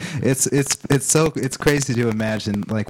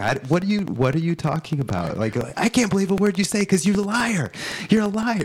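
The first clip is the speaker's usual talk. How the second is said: mock indignant reply; 7 semitones higher than usual. Imitating the crowd's reply.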